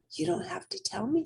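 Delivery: put-on high childlike voice; little rabbit. A narrator's reading. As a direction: speak up brightly like a small child.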